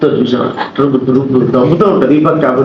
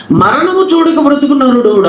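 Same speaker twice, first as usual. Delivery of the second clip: emphatic high recitation; 8 semitones higher than usual. Shown as a demonstration. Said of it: "బాగా వినాలి మీరంతా".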